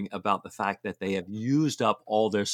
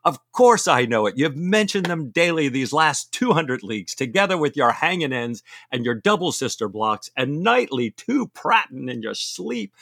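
Stephen's retort; 5 semitones higher, 4 dB louder than usual. Acted.

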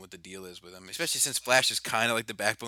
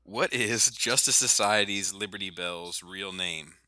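repeating to voice assistant; 3 semitones lower, slower than usual. Real, not acted. Asking a voice assistant.

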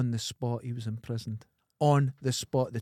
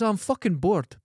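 blunt complaint; 5 semitones higher, 5 dB louder, slower than usual. Retold or imitated. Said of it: "He says".

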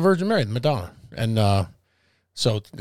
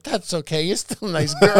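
lightly voiced aunt, slightly raised pitch, drawn out at the end; imitated Italian aunt; 4 semitones higher than usual. Aunt accepting the Irish wife, imitated reassurance. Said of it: "She's like".

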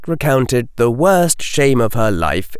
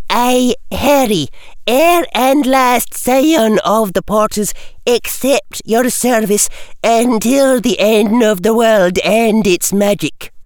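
Scottish teacher; 11 semitones higher than usual. A narrator's reading. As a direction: dictate like a stern schoolmistress. McGonagall dictating oath to Harry.

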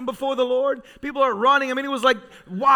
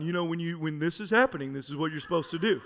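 scolding church elder; 7 semitones lower, 9 dB quieter, faster than usual. Retold or imitated. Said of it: "always the one called aside".

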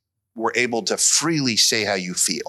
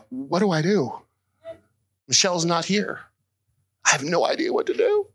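higher, fast flustered dad voice; higher, hurried panic at the crying daughter; mock panic; 6 semitones higher than usual. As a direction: blurt it out like a lost father.

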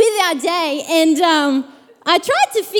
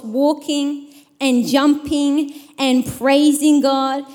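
measured, lower-pitched Bible reading; scripture reading; 4 semitones lower than usual. Real, not acted. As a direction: read the passage aloud to a congregation. Reads scripture aloud to congregation.

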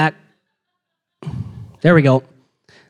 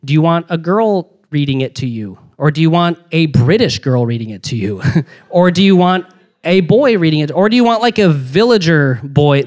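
mock app voice. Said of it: "then it's like".

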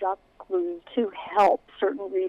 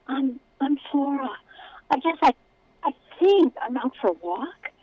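nervous; 5 semitones higher than usual. Acted. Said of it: "She tried to sound brave".

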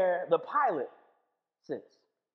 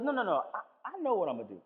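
1 calm reassurance; 5 semitones lower, 3 dB quieter than usual. Retold or imitated. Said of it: "And he goes".

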